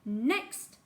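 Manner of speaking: stern headmaster barking next; snapped. Acted. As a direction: call the next victim coldly. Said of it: "snapped Mister Coombs".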